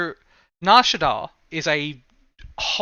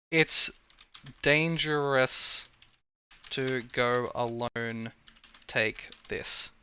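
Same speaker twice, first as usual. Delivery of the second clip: hushed; 2 semitones lower, 6 dB quieter, much slower than usual. Retold or imitated. Quoting old game line hushed.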